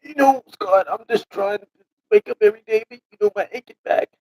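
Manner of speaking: put-on high, loud old man character. Mark groaning to Scott about waking up, old man voice. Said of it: "you can't use your old man voice".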